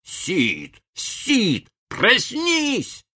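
put-on boy urgently waking his brother; Tom shaking his brother awake. A narrator's reading. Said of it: "рассердился и начал трясти брата".

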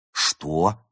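understated astonished question; surprised. Acted. Friend hearing who the cat drank with, surprised. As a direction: stretch it in mild disbelief. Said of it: "удивилась Берта".

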